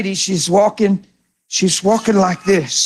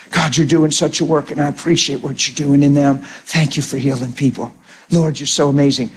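grateful prayer; 6 semitones lower than usual. Acted. Prayer voiced after walking away.

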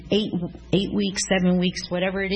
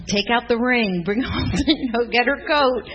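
loud, high, thrilled shouting orders; bursting with celebration, louder and higher; husband's excited call; 4 semitones higher, 5 dB louder than usual. Retold or imitated. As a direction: call it out like a party's coming. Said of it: "he's like".

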